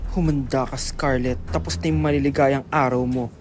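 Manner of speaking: vengeful villain. Acted. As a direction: growl a promise of payback. Rival threatens Scarlett. (mababa at nagbabantang boses ng kontrabida)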